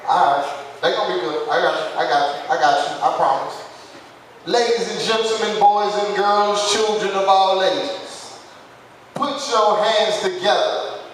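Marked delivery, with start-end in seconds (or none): 4.5-11.0 slow, drawn-out announcer call; big top showman, stretching each phrase; ringmaster. Acted. MC introduces comedian, announcer style.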